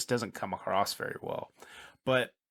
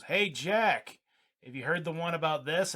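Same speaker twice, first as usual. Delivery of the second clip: higher mock call to a pal; joker calling out; 5 semitones higher than usual. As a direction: pitch it up like a hammy joke setup. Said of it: "the other guy goes".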